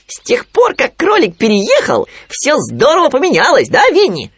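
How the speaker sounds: very high, piping character voice; Khryunya. A narrator's reading. Khryunya asking Winnie about Rabbit's move, high and piping. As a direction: ask in a high little animal voice. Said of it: "спросил Хрюня".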